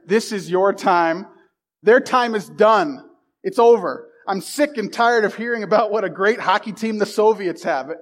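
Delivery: steady, building locker-room speech; rousing coach pep talk. Acted. Coach to his players before the big game, rousing pep talk. Continues reading Miracle speech.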